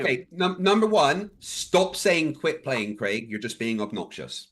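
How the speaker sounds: irritation building to a sharp rebuke; exasperated, firm complaint; calm turning angry. Real, not acted. Frustrated debater confronting opponent.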